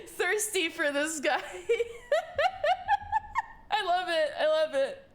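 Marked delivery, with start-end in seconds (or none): 1.5-3.6 very high rising giggle fit; giddy laugh. Real, not acted. Giggling at thirsty artist joke.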